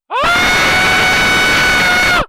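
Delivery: sudden sharp high scream of fright; panicked scream. Real, not acted. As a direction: shriek out in real panic. Fear as price moves.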